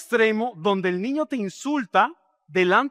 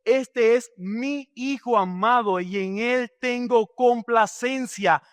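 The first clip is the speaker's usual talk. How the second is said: proud proclamation; 4 semitones higher, slower than usual. Acted. God the father proclaims to all.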